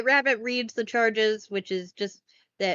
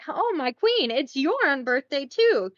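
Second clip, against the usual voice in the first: higher, gushing little king voice; higher king gushing at his wife; higher delighted king; 4 semitones higher, 3 dB louder than usual. Retold or imitated. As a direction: announce it to his queen with delight. King cheers the queen.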